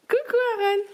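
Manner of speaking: sing-song greeting. Real, not acted. Mother greeting her son, high sing-song coo.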